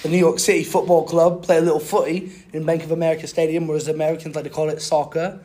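put-on British accent. Podcaster recaps his week as a British man, mock British accent. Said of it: "I'll speak in a British accent".

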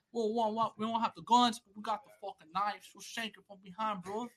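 lightly mocked English rapper accent. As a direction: imitate a gritty English rapper. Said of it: "the way they talk".

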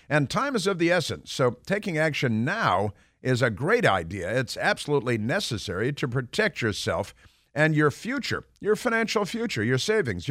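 upbeat radio ad read. Acted. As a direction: sell it like a radio spot. Host reads sponsor ad.

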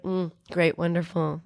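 dry sarcastic letdown. Pretend. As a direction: flatly fake pleased, trailing off quiet. Baby left alone sarcastic.

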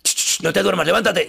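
high, loud hushing command; shush, then urgently order someone awake; imitating a voice that jolts a sleeper awake; urgent mystery voice. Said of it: "de repente escuché".

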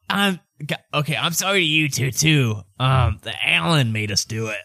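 lightly put-on apologetic father; dad character voice. Ubo's dad blaming the Alan to the party, lightly put-on. Game master continues as the dad.

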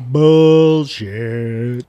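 mock group heckle, vowels dragged out; drawn-out jeering disbelief. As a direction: imitate everyone calling it out, long and slow. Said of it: "everyone was like".

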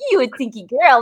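lightly cutesy baby-talk imitation; a touch of cooing to a baby. Parent changing baby's diaper, light mock baby talk. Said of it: "guilty pleasure of baby talk".

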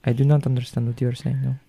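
lightly voiced French accent; a comic Frenchman at a loss. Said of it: "I like the French accent".

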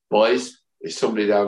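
faint, botched Irish landlady; terrible Irish accent. Acted. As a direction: attempt an Irish accent, barely there. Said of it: "that was a terrible Irish accent".

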